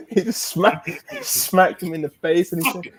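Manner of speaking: high-pitched, giggly retelling; cracking up mid-sentence; can barely get it out for laughing; laughing while talking. Real, not acted.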